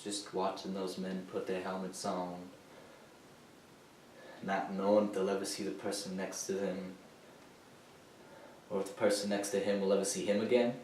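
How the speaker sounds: very soft, low, with long pauses; haunted. Acted. Veteran recalling soldiers before battle, hushed and haunted. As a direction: recall it quietly, as if watching it.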